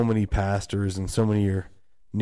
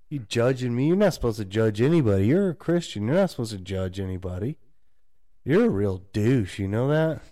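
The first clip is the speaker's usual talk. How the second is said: mocking old friend; 3 semitones higher than usual. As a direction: scoff at him like an old party friend. Old friends scolding new Christian.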